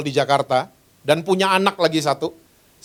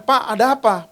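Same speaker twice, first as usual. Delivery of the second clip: retold irritated question, pitched up; higher-pitched, slightly peeved query; mildly annoyed; 6 semitones higher than usual. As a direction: act a little put out at being disturbed. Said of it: "agak-agak kesel saya nanya".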